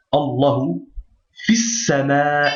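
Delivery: Allahu, then fis sama drawn out slowly; pausal pronunciation. Shown as a demonstration. Teacher shows the Quran reading of fis sama, slowly. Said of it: "c'est comme ici".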